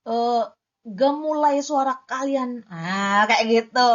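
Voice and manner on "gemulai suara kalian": GEMULAI SUARA KALIAN drawn out in a swaying tune; played-with intonation. Shown as a demonstration. Poetry coach showing intonation, slow lilting GEMULAI SUARA KALIAN. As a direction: let gemulai suara kalian glide slowly. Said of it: "intonasi dimainkan".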